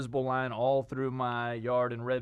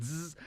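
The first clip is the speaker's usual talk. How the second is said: buzzed zap noise; imitated electric zap; 2 semitones higher, 7 dB quieter than usual. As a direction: make a short electric zzz.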